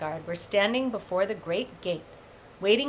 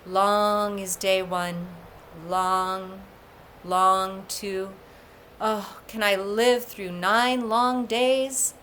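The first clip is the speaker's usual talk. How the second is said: longing to himself; slower than usual. Acted. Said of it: "saying to himself".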